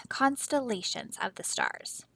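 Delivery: soft unvoiced whisper of the word. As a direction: breathe it out like a secret. Teacher whispers word to class.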